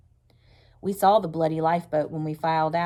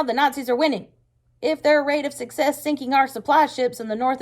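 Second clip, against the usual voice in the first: loud, high, sharp-edged war speech; sharper angry voice; 5 semitones higher, 5 dB louder than usual. Acted. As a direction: hammer home the threat, furious. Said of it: "his voice getting even sharper".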